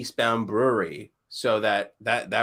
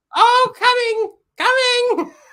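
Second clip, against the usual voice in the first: very shrill, high, loud comic nurse voice; 10 dB louder than usual. Speaker acts out a birth scene, answering as the nurse in a nurse character voice. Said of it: "quite the voice on that nurse".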